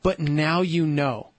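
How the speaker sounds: put-on gentle parent soothing a child; lightly voiced reassuring parent; retold reassurance.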